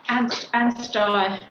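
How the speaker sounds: slow, clear correction: Anstey ending like "sky"; local pronunciation of Anstey. Shown as a demonstration. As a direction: draw out Anstey with a final "eye". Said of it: "Is it Anstey or Anstey?".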